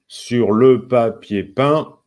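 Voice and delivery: very slow, separated syllables; syllables for counting. Shown as a demonstration. Teacher asking learners to count well, syllable by syllable. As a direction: pull each syllable apart to be counted. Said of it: "comptez bien".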